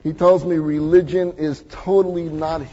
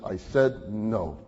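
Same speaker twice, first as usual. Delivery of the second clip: slow firm no; 7 semitones lower, 3 dB quieter, much slower than usual. Retold or imitated. Man's final refusal.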